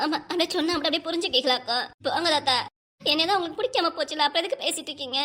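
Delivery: crying as she complains; tearful reproach. Acted. Wife feeling unloved, accusing her husband, tearful. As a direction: reproach him through tears. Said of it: "இப்ப எதுக்கு அழுதுட்டு இருக்க நீ?".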